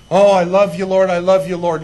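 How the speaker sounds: loud, gushing imitation of a believer; mock devotion. Believer professing love to the Lord, mock-devoted. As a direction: overdo the eager pledge of love.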